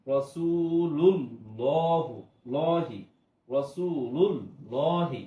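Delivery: রাসূলুল্লাহি drawn out slowly and loudly; recited example. Shown as a demonstration. Teacher reciting an example word for students, slow and loud. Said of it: "যেমন".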